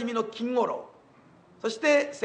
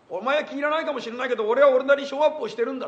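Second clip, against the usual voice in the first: fast, getting louder defense; mock angry retort sped up, rising louder; 2 semitones higher, 4 dB louder, faster than usual. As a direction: hurl back a quick indignant justification. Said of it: "と".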